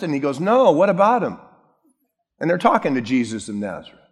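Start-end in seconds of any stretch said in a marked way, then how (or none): 0.4-1.4 higher, innocent-sounding question; feigned ignorance. Acted. Preacher voices incognito Jesus answering the walkers, playfully innocent. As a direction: play it as if you know nothing.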